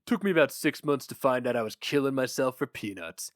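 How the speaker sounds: lightly voiced gruff newspaper boss; a hint of a jaded editor reminiscing; boss Flammer. Flammer tells his story.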